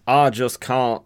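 Southern drawl, slow and loud; Southern accent. Acted. Jonah explaining himself to Missus Crowley, Southern accent. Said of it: "trying to give him a Southern accent".

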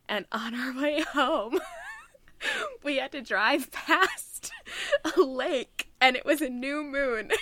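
choked up and giggling through it; tearful laughing. Real, not acted. Telling emotional story, crying-laughing.

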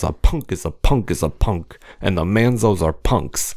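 lightly voiced Jersey wise guy; a little pipsqueak acting scary; Danny. Imitating reality star's threat, hint of wise guy. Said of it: "he thinks he's scary".

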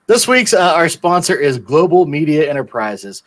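hammed-up ad read; infomercial. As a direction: sell it like a cheesy pitchman. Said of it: "we have a sponsor announcement".

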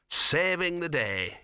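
indistinct. A narrator's reading. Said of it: "he said indistinctly".

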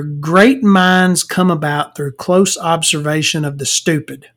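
slow, drawn-out maxim with GREAT stressed; measured reading. Real, not acted. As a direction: read the written saying out slowly. Reading out his written maxim.

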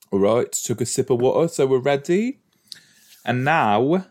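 playful put-on British accent. Host getting the episode going, put-on British accent. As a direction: announce it in a mock British accent. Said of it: "I'm not gonna talk like that".

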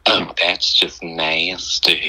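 slow, low cartoon voice with a laugh; Cleveland Brown voice. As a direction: drawl it like the cartoon dad. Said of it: "I have the perfect Cleveland Browns".

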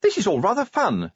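high-pitched lady enjoying herself; cheerful wife. A narrator's reading. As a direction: chat happily in a high voice. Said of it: "said Sybil an hour later".

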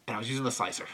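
low, brooding, melodramatic lament; Nicolas Cage's character. Retold or imitated. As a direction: wallow in it like a tragic hero. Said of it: "He's like".

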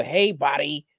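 light mock white American voice; a hint of mock white-guy speech; imitating white people. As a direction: lightly put on a stereotyped white American accent. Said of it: "when we change our voice to them".

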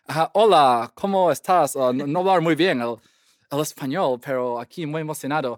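imitating a light American accent in Spanish; mock gringo kid speaking Spanish. Recalling his first day at the Peruvian school, light American accent. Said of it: "hacer ese acento".

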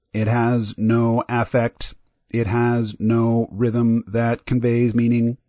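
slow, toneless sci-fi robot. Shown as a demonstration. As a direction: speak like an old movie computer. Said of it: "the typical robot voice from twentieth century science fiction sounds like this".

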